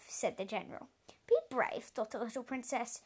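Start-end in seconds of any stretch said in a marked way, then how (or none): 1.3-1.9 high, lifted echo of the words; excited. A narrator's reading. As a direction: say it as if struck by a bright idea. Princess repeats, inspired.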